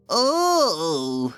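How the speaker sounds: high, loud gleeful cackling oh; evil cackle. Acted. Peeves taunting first-years, high evil cackle. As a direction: relish the mischief like a gleeful ghost. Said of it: "he said with an evil cackle".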